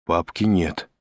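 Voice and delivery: mildly sinking, fearful answer; faint voice. A narrator's reading. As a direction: answer as if your voice is dying away. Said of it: "отозвался дежурный замирающим голосом". (замирающим голосом)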